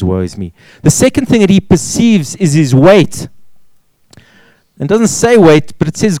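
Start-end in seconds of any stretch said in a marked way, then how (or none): 0.0-0.5 low, soft awed confession; quietly undone before God; hushed awe. Retold or imitated. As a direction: breathe it out, overwhelmed. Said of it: "And he says".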